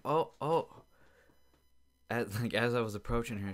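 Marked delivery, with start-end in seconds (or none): 0.1-0.8 high, loud mock fretting "oh, oh"; mocking the woman. Mocking the woman on the bridge, high fretting. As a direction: ham up a nervous dog owner. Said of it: "And she said".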